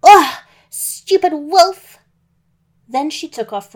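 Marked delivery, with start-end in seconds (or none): 0.0-2.0 high, very loud angry shriek; furious scream. Acted. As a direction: scream it at the clumsy wolf. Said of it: "she jumped up and screamed".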